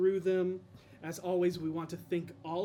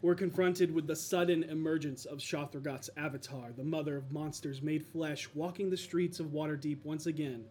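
story recap narration. A narrator's reading. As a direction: set the scene like a game master.

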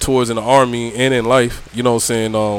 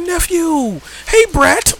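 auntie greeting; much slower than usual. Retold or imitated.

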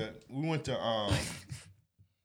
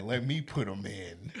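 sneaky; 3 semitones lower, 4 dB quieter, slower than usual. Retold or imitated. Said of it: "Sounds so conniving".

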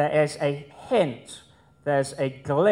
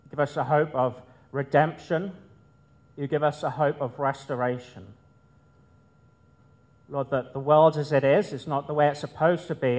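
reverent public prayer with pauses between petitions. Real, not acted. Leads the congregation in prayer.

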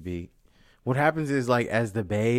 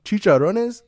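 puzzled question; 12 semitones higher, 11 dB louder, slower than usual. Retold or imitated. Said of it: "I'm like".

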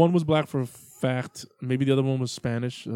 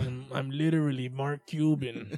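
put-on Cuban accent; 4 dB quieter than usual. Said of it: "That's my Cuban accent".

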